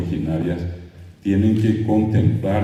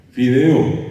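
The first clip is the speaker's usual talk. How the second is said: Fideo, louder and higher, stressing the F; insistent teacher; 5 semitones higher, 5 dB louder than usual. Shown as a demonstration. Teacher losing patience, repeating Fideo loudly. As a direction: push Fideo hard so the child hears the F. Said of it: "que repitan".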